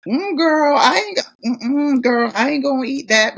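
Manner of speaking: high-pitched, picky mm-mm; mock squeamish refusal. Mimicking picky people refusing food, squeamish.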